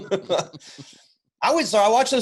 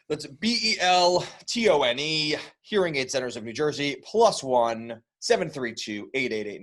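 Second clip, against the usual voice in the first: ad read; 2 semitones lower than usual. Acted. Sponsor ad read.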